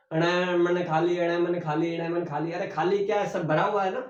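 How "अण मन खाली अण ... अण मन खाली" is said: singsong chant of a memorised alphabet line; mock rote chanting, evenly run together; childhood rote recitation. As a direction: rattle it off like schoolchildren by rote. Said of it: "आदत पड़ चुकी है हमारी बचपन में".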